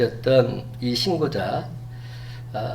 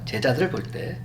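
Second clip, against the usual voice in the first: normal talking voice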